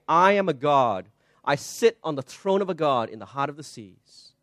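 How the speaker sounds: plain; plain proud quote. Retold or imitated. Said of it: "drives them to say".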